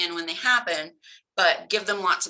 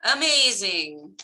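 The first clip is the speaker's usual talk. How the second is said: put-on praising child; 2 semitones higher, 4 dB louder, slower than usual. Shown as a demonstration.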